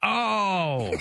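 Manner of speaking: high, drawn-out real "oh"; astonished realization. Real, not acted. Host learning it's called Jif, astonished. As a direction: let it fall from high as it dawns on you. Host reacts to the revealed answer.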